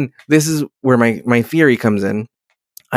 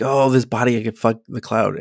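quiet quote; 4 semitones lower, 5 dB quieter than usual. Retold or imitated. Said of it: "Maybe he was like".

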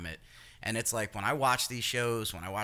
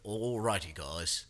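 mild Australian cooking-show greeting; a light nod to an Aussie host saying hi; Australian TikTok chef; 2 semitones lower, slower than usual. Retold or imitated. Retelling how the Australian cook opens each episode, lightly accented. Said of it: "he starts every episode with".

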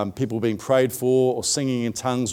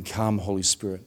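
hushed, lower invocation; quiet prayer; 5 semitones lower, 7 dB quieter than usual. Retold or imitated. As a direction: pray it softly to yourself. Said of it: "And I said it again".

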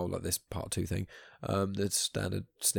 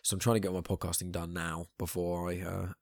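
hushed, croaky late-night voice; 3 dB quieter than usual. Real, not acted. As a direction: speak softly with a croaky voice. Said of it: "hushed tone, and also the croaky voice".

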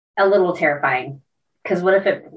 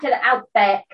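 put-on Australian accent; 3 semitones higher than usual. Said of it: "My country's coming out".

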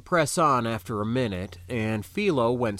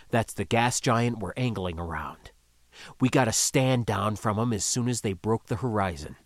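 low calm skipper voice; 3 semitones lower than usual. Acted. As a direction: speak like a calm ship captain.

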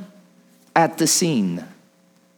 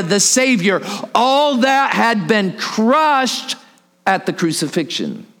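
impassioned preaching. Real, not acted. Preacher telling congregation what Mary gave up, impassioned. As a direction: preach it with full conviction.

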